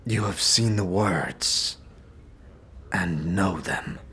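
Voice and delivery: slow, deliberate words. Acted. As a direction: let each word land slowly. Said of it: "Dakon's voice slows".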